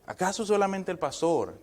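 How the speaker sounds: mildly mocking rhetorical question, pitched high; lightly acted irreverent objection; irreverent challenge.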